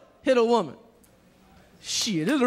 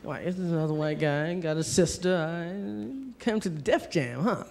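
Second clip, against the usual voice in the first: mocking white guy; 6 semitones lower, 4 dB quieter than usual. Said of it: "He's like".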